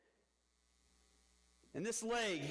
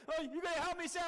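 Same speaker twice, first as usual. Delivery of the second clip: imitated crying plea; 9 semitones higher than usual. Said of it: "and I'm just crying".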